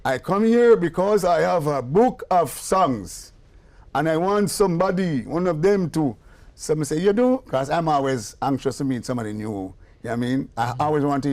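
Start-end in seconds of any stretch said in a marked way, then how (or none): 0.0-6.2 mock foreign student voice, a little higher and slower; a hint of the earnest young visitor; imitating the African visitor. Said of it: "and he say". 7.0-7.4 surprised. Retold or imitated. Eager reply to visitor.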